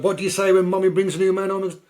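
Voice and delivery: high, loud coaxing prompt; mock mother voice. Mother prompting her kids to greet the new man, high and loud.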